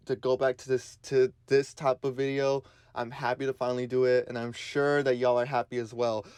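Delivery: slight lisp from new braces. Real, not acted. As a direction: talk with a light braces lisp. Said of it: "you're gonna get a lot more of a lisp type of voice".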